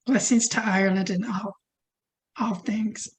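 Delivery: strained, fading voice; losing voice. Real, not acted. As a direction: voice going hoarse. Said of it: "I'm losing my voice here".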